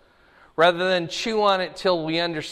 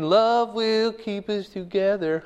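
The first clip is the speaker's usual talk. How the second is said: mock starry-eyed newlywed. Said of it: "They're just thinking".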